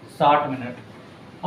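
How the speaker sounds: साठ मिनट drawn out slowly, each word held; slow repeat. Shown as a demonstration. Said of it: "teacher repeats it slowly".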